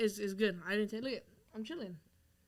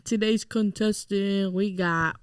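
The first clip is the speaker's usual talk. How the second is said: announcer voice; much slower than usual. Acted. Introducing guest on podcast.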